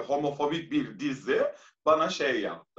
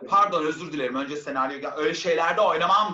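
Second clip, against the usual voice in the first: retelling a firm refusal, voice raised and louder; 5 dB louder than usual. Retold or imitated. Actor telling producers she won't play such roles, raised voice. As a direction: push the refusal out, louder on the last part. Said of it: "Ama sesimi de yükseltiyorum".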